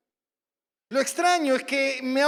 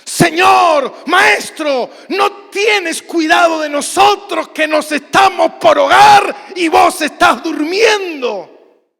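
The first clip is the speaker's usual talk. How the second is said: much higher, much louder angry yell; furious shout; 4 semitones higher, 11 dB louder, slower than usual. Shown as a demonstration. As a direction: hurl the complaint at the sleeping Jesus. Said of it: "la reacción fue más".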